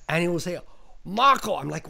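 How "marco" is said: raised, higher mock call; John Woo. Director calling up from the bottom, mock yell. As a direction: imitate a director calling uphill. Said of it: "John would scream from the bottom".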